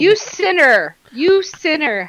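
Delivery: mock accusation. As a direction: playfully denounce a heretic, drawing out the repeat. Mock outrage at lukewarm fan.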